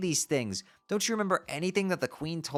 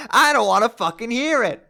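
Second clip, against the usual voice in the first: Karkat-style yelling; 6 semitones higher, 7 dB louder than usual. Acted. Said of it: "Jade has turned into Karkat".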